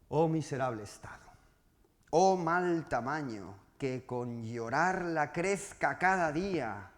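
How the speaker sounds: slow, solemn reading of a sonnet; poem recital. Acted. Teacher reading Garcilaso's sonnet to the class, slow and solemn. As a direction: savour each line of the verse slowly.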